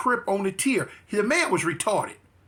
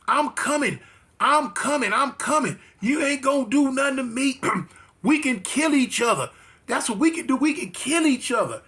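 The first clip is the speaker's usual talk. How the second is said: higher-pitched, insistent mock threat; imitated sworn threat; 4 semitones higher than usual. Rival inmate swearing he will come fight, imitated insistent threat. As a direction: mimic his repeated vow, pitched up. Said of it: "he swore it down".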